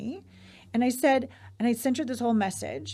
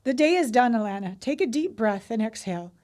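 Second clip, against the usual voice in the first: soothing bedtime read-aloud. Real, not acted. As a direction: read it like a blessing that settles someone to sleep. Reads aloud a soothing bedtime message.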